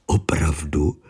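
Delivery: hushed, low wonder. A narrator's reading. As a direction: ask it under your breath in wonder. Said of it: "Podivil se Exner".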